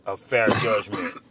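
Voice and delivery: throat still catching from food; choking on food. Real, not acted. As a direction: cough cutting the phrase. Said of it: "They choking me right now".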